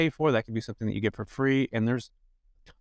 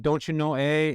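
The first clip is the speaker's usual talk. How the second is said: put-on higher-pitched Fargo accent; imitated Midwestern accent; 5 semitones higher, slower than usual. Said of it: "this really cool Midwestern accent".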